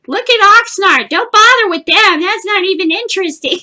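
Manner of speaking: high, loud mock yelling of an old lady; mother-in-law yelling at the family to watch Oxnard's show; imitating a yell. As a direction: belt it out like a pushy mother-in-law. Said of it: "my mother-in-law just kept yelling".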